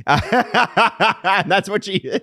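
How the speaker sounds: high, breathy laugh breaking into words; laughing through the line. Real, not acted. Laughing at his own Dina story.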